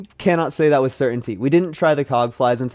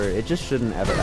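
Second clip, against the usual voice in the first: quiet mutter; 4 semitones lower, 6 dB quieter than usual. Real, not acted.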